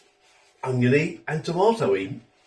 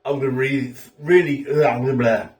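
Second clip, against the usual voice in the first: breathless excitement; 3 dB louder than usual. Real, not acted. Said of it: "Can't even talk properly. I'm so excited about eating it".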